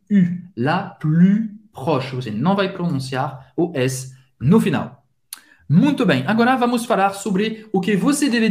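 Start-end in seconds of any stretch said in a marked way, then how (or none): 0.1-2.1 U and plus said with rounded lips, an I through an O mouth; slow model of the French U in la plus proche; French U sound. Shown as a demonstration. Teacher shows the French U sound slowly to students. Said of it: "faz a boca do O e fala I".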